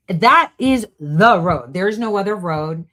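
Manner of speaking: "That is the road" said loud and slow, with a heavy fall; slow emphatic declaration. Real, not acted. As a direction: hammer "That is the road" slowly. Repeated for emphasis.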